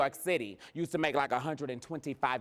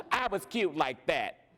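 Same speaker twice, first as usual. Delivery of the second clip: amused, giggly self-praise; laughing; 4 semitones higher than usual. Real, not acted. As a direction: let the laughter spill into the boast. Laughs while joking about self.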